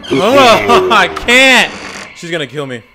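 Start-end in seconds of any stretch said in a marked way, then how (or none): 0.1-1.7 laughing exclamation. Real, not acted. Laughing at being caught.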